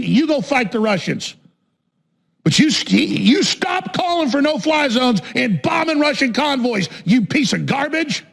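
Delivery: heated, scolding rant; angry challenge. Real, not acted. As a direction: lay into someone who isn't there. Angry tirade addressed to absent director.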